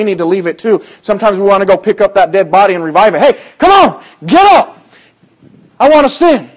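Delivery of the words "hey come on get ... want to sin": put-on high, louder wheedling voice of the old self; mock pleading flesh. Preacher voicing the old sinful nature begging to return, mock high wheedle. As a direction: coax the dead sin back to life, hammed up. Flesh voice trying to revive sin.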